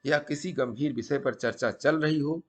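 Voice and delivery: deliberate storytelling, pausing between phrases; moral story narration. A narrator's reading. Storyteller passing a sadhu's maxims to viewers, measured emphatic narration. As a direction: narrate like a teaching tale, punching each maxim.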